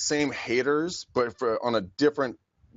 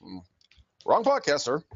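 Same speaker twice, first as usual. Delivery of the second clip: dry brush-off; 2 semitones higher than usual. Retold or imitated. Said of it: "I'm like".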